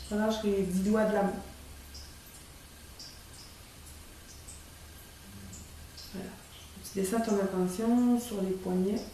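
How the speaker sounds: posé, longues pauses entre les consignes; relaxation guidée. Shown as a demonstration. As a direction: guider doucement vers le relâchement, sans se presser. Guides a short relaxation demo. (voix de relaxation, calme et espacée)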